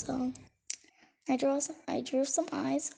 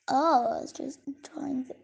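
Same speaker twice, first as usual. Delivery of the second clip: whispered aside. Real, not acted. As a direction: breathe it as a secret.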